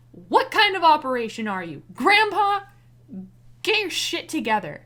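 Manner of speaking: loud, fed-up scold; exasperated scolding. Real, not acted. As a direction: chew them out in disbelief.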